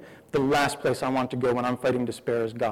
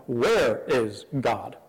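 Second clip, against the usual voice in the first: slow taunting question; 3 semitones lower, much slower than usual. Retold or imitated. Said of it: "No, they're asking".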